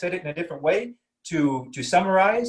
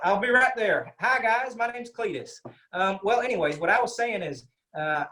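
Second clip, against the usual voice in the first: lightly voiced Texan cousin, pitched higher; a hint of a strong Texas accent, higher voice; Cletus from Texas; 3 semitones higher than usual. Teacher playing her Texan cousin for the class, lightly voiced higher. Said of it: "I'm gonna bring in my cousin, uh, Cletus".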